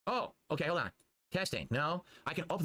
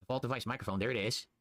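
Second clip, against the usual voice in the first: cave echo; 3 semitones lower than usual. Real, not acted. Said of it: "Sounds like I'm in a cave".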